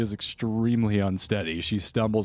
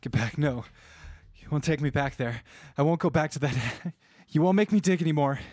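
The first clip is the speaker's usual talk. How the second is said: put-on frightened woman in a higher, girly voice; high-pitched scared runaway; 6 semitones higher than usual. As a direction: plead in a high girly voice, refusing to go back. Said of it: "where's that girly voice from?".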